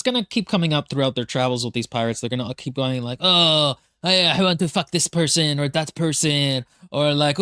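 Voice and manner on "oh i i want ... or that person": pirate voiced with a mock French accent. Pirates on their travels lusting, in a French accent. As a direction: make the crude pirate sound French. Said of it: "I don't know why I made them French".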